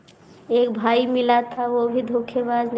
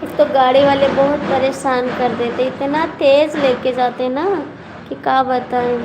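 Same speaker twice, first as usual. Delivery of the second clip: raised voice, grumbling about fast traffic; loud complaint; 5 dB louder than usual. Real, not acted. To viewers about reckless drivers, a loud fed-up complaint.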